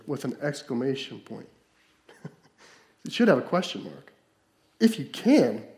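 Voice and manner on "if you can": "If you can" with scornful disbelief, falling on "If"; incredulous retort. Shown as a demonstration. Jesus answering the father in disbelief. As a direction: say "If you can" as if it's absurd. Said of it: "That's how it should sound".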